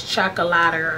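Chocolater ending in a "lah-ter" sound; a guess at Chocolater, with "-ter" unstressed at the end; guessed pronunciation. Shown as a demonstration. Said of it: "I don't know how you pronounce it".

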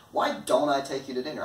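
fast question leaning on "don't"; stress on DON'T. Shown as a demonstration. Reluctant after no texts back, stress on "don't". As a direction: rattle it off, hitting "don't". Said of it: "putting the focus on the word don't".

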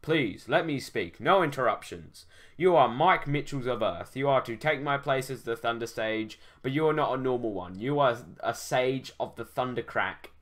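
lightly voiced grand old sage. Old sage introducing himself to the hero, solemn.

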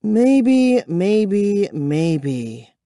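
high, bitter, fading repetition. A narrator's reading. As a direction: repeat it bitterly, trailing off. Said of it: "she repeated bitterly".

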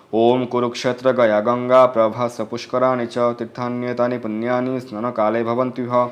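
slow, measured Sanskrit prayer recitation; mantra recitation. Acted. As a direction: intone the mantra steadily, like a priest at the river.

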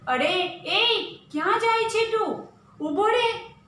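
high, loud call to stop a stranger; guard's shout. Acted. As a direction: shout him to a halt like a palace guard. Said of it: "ચોકીદાર બૂમ પાડે છે". (ચોકીદારની બૂમ)

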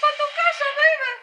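loud, high gloating cry; triumphant taunt. Real, not acted. Player escaping the monster, gloating with a loud cheer. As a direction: shout it out in victory.

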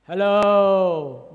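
booming mock God greeting; exaggerated, powerful holler; big loud voice. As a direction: call it out hugely, long and drawn out. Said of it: "God's voice didn't come out of those big and loud, powerful voice".

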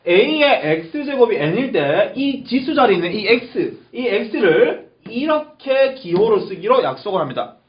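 slow, deliberate teacher explanation; slow walk-through. Shown as a demonstration. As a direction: take the definition through slowly, step by step. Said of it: "다시 한 번 더 천천히 봅시다".

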